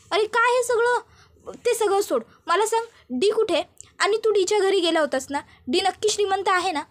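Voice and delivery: high, urgent questions, pitched well up; anxious demanding. Acted. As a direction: fire questions at him, pitch high and pressing. Gautami demands answers from Charlie. (उंच आवाजात घाबरून घाईघाईने विचारणे)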